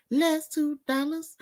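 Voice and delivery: hammed-up plea; mock pleading. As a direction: drag it out like begging. Mock pleading over two dollars.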